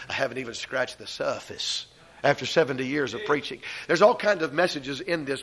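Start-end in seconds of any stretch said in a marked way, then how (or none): 0.1-1.9 put-on Tennessee Southern accent. Preacher quoting Doctor Lee's answer, in a Tennessee Southern accent. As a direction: quote the old preacher in a Southern accent, a little softer. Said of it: "in that Tennessee Southern accent".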